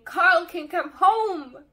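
very loud, high, drawn-out cheer; joyful scream. A narrator's reading. Sister jumps around at war's end, screaming joyfully. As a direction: shout it out in jubilation. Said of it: "I jumped around screaming".

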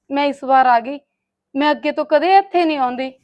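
loud, hurt plea on the verge of sobbing; tearful pleading. Acted. Sister-in-law answers accusation of stirring up quarrels, tearful pleading. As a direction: plead your innocence loudly, close to tears. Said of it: "ਹੁਣ ਡੁਸੂ ਡੁਸੂ ਜੇ ਕੀ ਕਰਦੀ ਆ".

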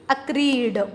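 अक्रीड said as a-kreed, ending on a hard retroflex d; teacher spells out अक्रीड as uh-kreed; pronunciation demo. Shown as a demonstration. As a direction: model अक्रीड clearly for students as a-kreed. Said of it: "इसकी pronunciation आपकी बनेगी".

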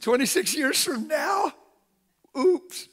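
high, loud, slow incredulous cry; excited shout. Acted. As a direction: shout it to the back row. Exclaims about himself in future.

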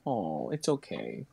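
low, slow, soft soothing to a growling animal; calm the growling bear gently. Pretend.

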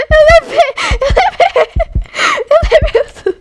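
high, loud stammering yelp; shaken squeal. Real, not acted. To her viewers, admitting the scare, high shaken squeal. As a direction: stammer it out, still half in shock.

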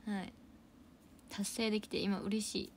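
ordinary talk, nothing marked

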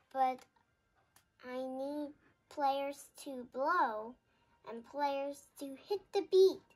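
impatient conductor. Acted. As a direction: push the players to hurry. Conductor urges the orchestra.

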